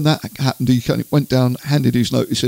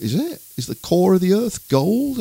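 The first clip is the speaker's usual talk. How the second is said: doubtful thought; 7 semitones higher than usual. Retold or imitated. Interviewer privately doubting the singer's theory, puzzled. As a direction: act out a private mild disbelief. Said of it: "And I thought".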